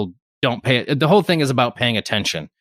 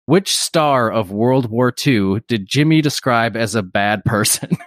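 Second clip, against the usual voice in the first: reading the question out; slower than usual. Retold or imitated. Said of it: "the question was worded".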